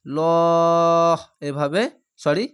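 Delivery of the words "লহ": লহ cut off sharply at the end, held loud; stopped short. Shown as a demonstration. Teacher showing students where to stop, clipped. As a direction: stop dead on লহ. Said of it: "এখানে ত আছে".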